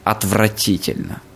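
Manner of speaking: slow, scornful teacher's verdict; bad acting. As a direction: drag it out like a disappointed teacher. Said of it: "таким тоном".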